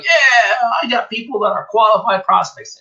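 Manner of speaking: hammed-up excited newbie; mock excitement. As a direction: crow about your great leads. Mock excited lead buyer.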